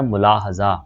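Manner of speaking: मुलाहजा as mu-laa-ha-zaa, with u first; correct pronunciation demo. Shown as a demonstration. Teacher giving the right form, careful demo of मुलाहजा as mu-laa-ha-zaa. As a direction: carefully sound out मुलाहजा syllable by syllable. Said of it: "ये इसका सही तलफ़ुज़ है".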